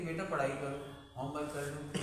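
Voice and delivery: a hint of a tender mother asking nicely; loving mother. Mother softly asking her child to do homework. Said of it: "mummy आपको प्रेम से कहती".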